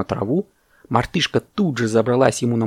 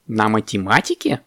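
mildly scandalised rising question; indignant parrot. Acted. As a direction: echo it in restrained outrage. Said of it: "возмутился попугай".

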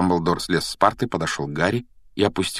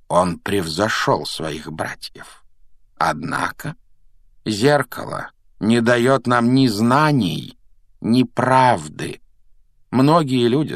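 slow, emphatic explaining with raised pitch; wise mentor Dumbledore; 3 semitones higher than usual. Acted. Dumbledore explaining the mirror to Harry, measured and emphatic. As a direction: lay it out weightily, stretching the key phrases.

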